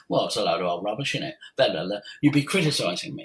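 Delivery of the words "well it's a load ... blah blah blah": a hint of a dismissive grumble, fast; quick scoffing aside; mock sceptic. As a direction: toss it off as rubbish, lightly mocking. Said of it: "some of you didn't be thinking".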